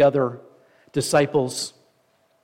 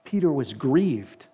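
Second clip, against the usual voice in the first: scripture reading; 2 semitones higher than usual. A narrator's reading. Reads scripture aloud to congregation.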